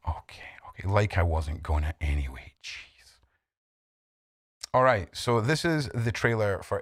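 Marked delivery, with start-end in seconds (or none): 0.1-0.9 muttered aside. Real, not acted. Muttering reply to chat. 2.6-3.2 whispered aside. Real, not acted. Muttering reply to chat.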